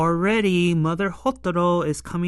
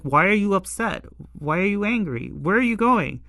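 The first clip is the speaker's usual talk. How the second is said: higher, quick and bewildered; puzzled calling after; 4 semitones higher, faster than usual. Retold or imitated. Hotaro calling after the departing Kaguya, baffled and higher. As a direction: call after him, baffled.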